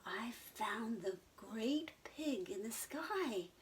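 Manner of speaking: slow excited whisper; squealed. Acted. Henry telling the sheep, slow excited whisper. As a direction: hush it out with slow wonder. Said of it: "squealed Henry".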